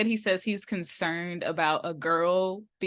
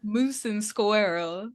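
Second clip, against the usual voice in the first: slow, tentative stab at a Russian accent; badly faked Russian accent, drawn out; reluctant attempt at a Russian accent; much slower than usual. Shown as a demonstration. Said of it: "Give me your best Russian accent".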